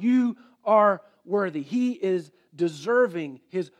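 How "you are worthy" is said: louder earnest declaration; crying out. Acted. Elder on his face declares worth, crying out. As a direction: proclaim it face down. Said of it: "I am crying out".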